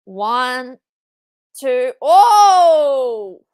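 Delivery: loud startled shout into a laugh; real surprise; surprised laughing yelp. Real, not acted. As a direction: react to the kick-out. Near-fall on screen.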